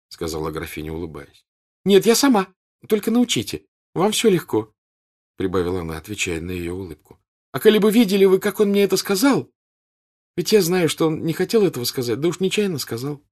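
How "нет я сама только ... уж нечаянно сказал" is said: put-on eager girl. A narrator's reading. Natasha eager, smiling.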